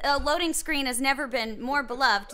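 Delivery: sweet voice. Shown as a demonstration. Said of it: "could you say that one more time".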